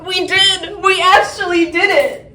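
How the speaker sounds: happy, laughing; overjoyed and a bit tearful; excited. Real, not acted. Celebrating their success.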